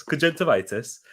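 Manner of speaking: soft Geordie pronunciation demo; Geordie accent. Shown as a demonstration. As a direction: say it softly as if Geordie. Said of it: "it comes out Geordie".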